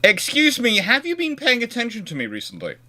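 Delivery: high, coy voice asking for attention; a hinted, high come-hither tease; flirty mock come-on. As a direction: play a country fishing for notice, high and teasing. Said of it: "you can go".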